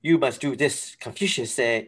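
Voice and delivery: mock-sage stereotyped Asian accent, measured phrasing; imitated movie Asian accent. Critic mimicking the movie's stilted dialogue, mock Asian accent. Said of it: "where they're talking like".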